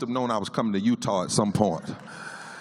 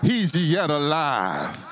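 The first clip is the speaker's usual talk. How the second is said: church response; 6 semitones higher, much slower than usual. Retold or imitated. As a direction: answer the call like a congregation. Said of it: "somebody would answer".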